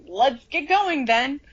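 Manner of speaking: slow, a hint of a stern teacher; deliberate, unhurried command; lightly voiced brisk McGonagall. McGonagall rallying to leave, slow and mildly stern. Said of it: "and, like".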